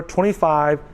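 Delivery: ordinary talk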